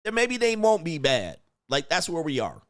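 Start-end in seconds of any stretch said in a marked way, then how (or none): 0.0-1.4 higher-pitched mimicry of gullible people; mock naive public. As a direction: imitate credulous folks pleading in a raised pitch. Voicing people welcoming invading Martians.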